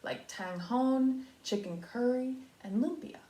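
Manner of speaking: lively storybook read-aloud; reading to children. A narrator's reading. Teacher reading a picture book to her class, storybook voice. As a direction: read it out for young listeners.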